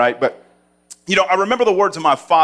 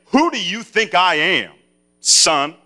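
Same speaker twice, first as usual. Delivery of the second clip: stern father; 5 semitones higher, slower than usual. Retold or imitated. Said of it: "He would say".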